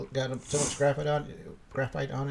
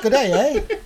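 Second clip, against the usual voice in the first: mock Canadian, raised and loud, with a laugh; Canadian accent; 10 semitones higher, 8 dB louder than usual. Host answers what to say about Canadians, mock Canadian accent. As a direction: put on a jokey Canadian accent. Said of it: "I forgot my French accent".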